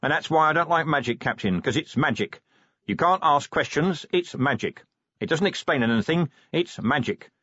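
repeating it's magic with rising scorn; exasperated sour complaint; grumbling rant. Acted.

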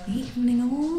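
policeman impression. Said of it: "They call that inflection".

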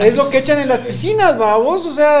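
talking through a loud laugh. Real, not acted. Laughing while describing the sauce.

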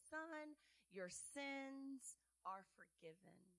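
soft, slow, tender blessing; tender forgiveness. Acted. Jesus gently forgiving the paralyzed man, soft and slow.

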